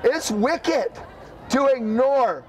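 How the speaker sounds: hard, driving street sermon; preaching at full force. Real, not acted. Street preacher calling a crowd to repent, preaching at full force. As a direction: preach it straight at the sinner.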